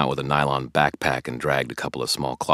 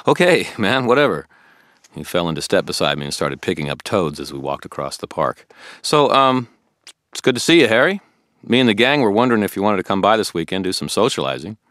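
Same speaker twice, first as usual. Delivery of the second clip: put-on higher, earnest young man asking questions; a puzzled, keen friend pressing Harry; Billy the eager friend; 7 semitones higher, 10 dB louder than usual. Billy questioning Harry about the toads, puzzled and keen.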